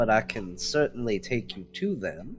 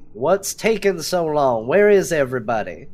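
louder impatient yell, higher; impatient shout, higher and louder; 4 semitones higher, 5 dB louder than usual. Acted. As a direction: call out down the hall. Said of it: "I'll just yell".

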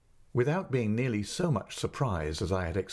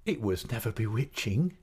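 laughing. Acted. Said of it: "she said, laughing".

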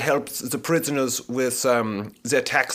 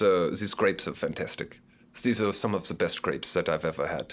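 talking with mouth open; 7 semitones lower, 6 dB quieter than usual. Real, not acted. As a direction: mouth full of grapes. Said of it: "I'm talking with my mouth open".

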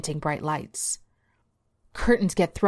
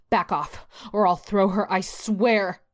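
threat pushed out somewhat louder, not a full scream; mild screamed threat; 3 semitones higher, 3 dB louder, slower than usual. Acted. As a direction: warn the police off, half-shouted. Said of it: "she screams out loud".

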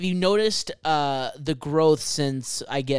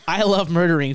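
laughing; 3 semitones higher, 7 dB louder than usual. Real, not acted. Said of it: "That's the title of the podcast".

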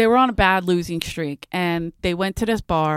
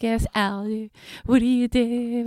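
near-breakdown voice, slightly raised and drawn out; higher, strained-nerves impression; Cindy; 3 semitones higher, slower than usual. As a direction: imitate a friend on the verge of a breakdown. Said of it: "sounded like she was gonna, you know, maybe have a nervous breakdown".

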